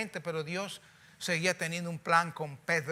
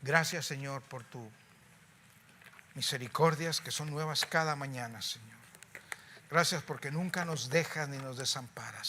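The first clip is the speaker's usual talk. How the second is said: closing prayer. Real, not acted. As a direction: pray over the congregation, humbly.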